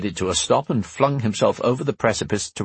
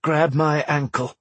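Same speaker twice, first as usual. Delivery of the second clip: growling through clenched teeth; 6 semitones higher than usual. Acted. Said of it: "growling between clenched teeth".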